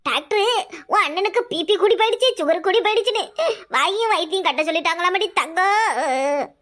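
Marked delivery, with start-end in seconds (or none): 3.8-6.5 crying lament. Acted. Mother tells of son's illness.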